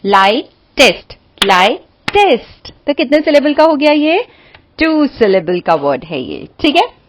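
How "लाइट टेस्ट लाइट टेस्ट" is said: लाइट and टेस्ट said as two clear beats; syllable by syllable. Shown as a demonstration. Teacher to students showing two syllables, लाइट टेस्ट. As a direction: model it syllable by syllable for the class. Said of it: "लाइट टेस्ट बोल के देखो".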